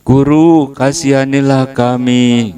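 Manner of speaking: high, loud pleading call; crying out. Retold or imitated. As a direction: shout for mercy across a distance. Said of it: "sepuluh orang ini teriak".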